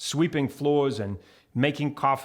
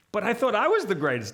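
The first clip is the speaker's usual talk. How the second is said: deflated self; 7 semitones higher than usual. Retold or imitated. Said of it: "And I was like".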